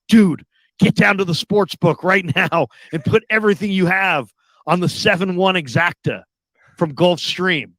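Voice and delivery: imitating a buddy's pressing phone call; urgent tip.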